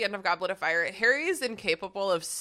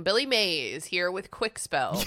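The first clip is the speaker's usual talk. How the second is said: infomercial; slower than usual. Retold or imitated. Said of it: "I absolutely read like an infomercial".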